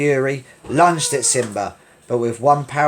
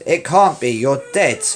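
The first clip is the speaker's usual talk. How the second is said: frightened; 5 dB louder than usual. Acted. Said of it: "said the frightened lion".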